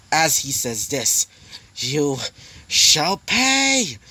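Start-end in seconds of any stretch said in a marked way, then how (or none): 1.8-4.0 furious vow. Acted. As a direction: pay screamed much higher and louder. Demon avenging his brother.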